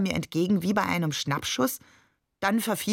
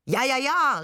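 much higher, eager mock agreement; mock fervent cry; 8 semitones higher, 3 dB louder than usual. A narrator's reading. Shakir joining Babe's mock sermon, fervently high. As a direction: chime in like a zealous believer. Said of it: "rief Shakir".

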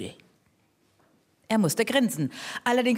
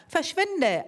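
higher, shooing shout; go-away call; 7 semitones higher than usual. Acted. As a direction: chase him off the pitch. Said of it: "rief jemand".

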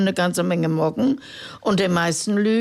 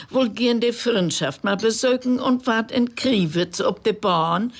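poem recitation. A narrator's reading. Reading Reuter's poem aloud on the radio, measured.

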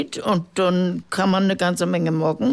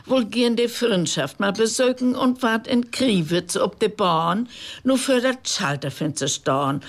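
poem recitation. Acted. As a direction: tell the rhyme with storyteller's relish. Recites comic Low German poem.

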